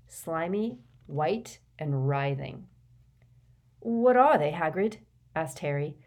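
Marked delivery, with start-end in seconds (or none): 3.8-5.0 high, forced curiosity; strained polite inquiry; feigned interest. A narrator's reading. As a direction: try to sound interested, not revolted. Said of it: "trying to sound interested rather than revolted".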